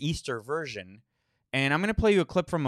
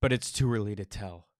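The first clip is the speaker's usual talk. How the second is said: mocking; 4 semitones lower than usual. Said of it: "echoing the official".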